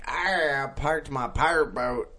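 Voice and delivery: a faint Irish lilt on a pirate boast; almost Irish pirate. Retold or imitated. Pirate docking in San Francisco, half-Irish accent. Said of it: "That was almost Irish".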